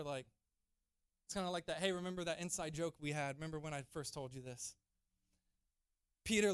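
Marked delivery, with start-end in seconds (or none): 1.8-4.8 put-on low, soft aside to an old friend; quiet, lightly acted reminder; knowing aside. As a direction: share it like an inside joke. Imagined aside between old friends.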